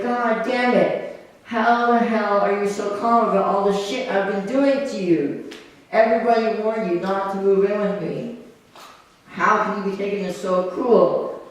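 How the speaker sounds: mildly acted exasperated outburst; losing it. Prankster losing it at his unbothered housemate, exasperated. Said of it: "he just loses it".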